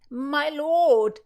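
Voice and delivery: loud high call across the market. Acted. Philomena calls to George through the crowd, loud and high. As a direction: hail him over the crowd. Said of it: "Philomena called".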